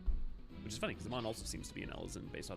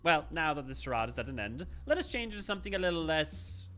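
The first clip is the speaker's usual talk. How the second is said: twee villain voice. Acted. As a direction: relish the charade as a villain. Voicing the villain character.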